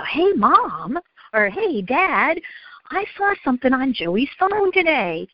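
slight imitation of a kid calling a parent; child reporting to parent. Johnny comes home to tell Mom or Dad, lightly voiced child. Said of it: "he's gonna come home and go".

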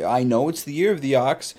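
ordinary talk, nothing marked

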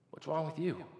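lightly imitated wife's question; puzzled wife. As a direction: quietly ask as the baffled wife. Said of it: "my wife looks at me and says".

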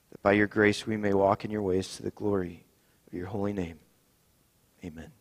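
solemn, measured confession prayer. Acted. Pastor leading the congregation in confession, solemn and humble. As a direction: pray it humbly for everyone.

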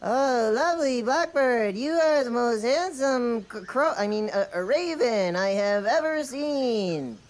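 sweet-talking as a lady; man doing a woman's voice. Acted. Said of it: "Let me hear your lady voice again".

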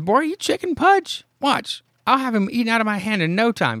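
high, fast, cocky teasing; a boastful kid jeering his pal; mocking taunt. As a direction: needle the scared friend. Greg mocking Pudge's fear.

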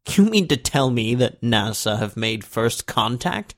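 slow, marvelling exclamation, a touch excited; rising excitement. Acted. President hearing of first contact, mildly excited and slow. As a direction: lean in, awed and a little thrilled. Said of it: "he exclaimed, his voice rising in excitement".

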